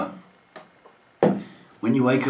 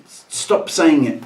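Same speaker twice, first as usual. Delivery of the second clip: mock stern command; 4 semitones higher, 4 dB louder, slower than usual. Scolding cohost over a word.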